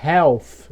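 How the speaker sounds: "half" said as "heuf", U before F; wrong U-like L. Shown as a demonstration. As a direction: turn the L into U in "heuf". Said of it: "Você também não vai falar assim".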